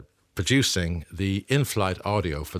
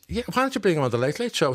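voicing Gay; 8 semitones higher, faster than usual.

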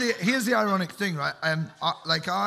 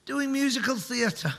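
laughing punchline; 8 semitones higher than usual. Real, not acted. Punchline about sprained ankle.

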